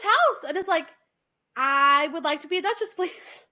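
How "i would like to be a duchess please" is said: put-on Cockney flower girl's polite request; mock Cockney. Eliza turns up at the professor's house, mock Cockney. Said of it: "she has a Cockney accent".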